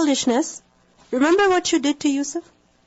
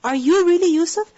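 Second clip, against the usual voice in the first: stunned brothers recognising Yusuf at last, amazed; amazed disbelief; 4 semitones higher than usual. Retold or imitated. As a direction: ask it like you can't believe your eyes. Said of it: "they say out of amazement".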